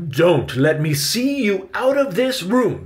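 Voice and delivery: high, loud bossy order; commanding. A narrator's reading. Victoria orders Benny to stay put, commanding. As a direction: order the boy sharply, pitched high. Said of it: "Victoria commanded".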